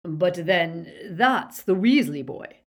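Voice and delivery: mild shout of discovery; Lucius's shout. A narrator's reading. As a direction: call it out deliberately. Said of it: "shouted Lucius".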